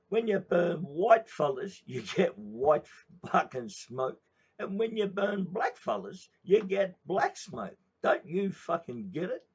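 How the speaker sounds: high, loud, slow explaining shout; husband lecturing. Retold or imitated. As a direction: spell it out to her like she is thick. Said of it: "he says".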